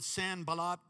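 Filipino accent, "Sanballat" with a hard p. Shown as a demonstration. Pastor joking with a Filipino accent. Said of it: "That's if you have a Filipino accent".

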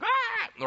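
brief high-pitched comic scream; high cartoonish "ah"; mock scream. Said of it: "He's screaming out".

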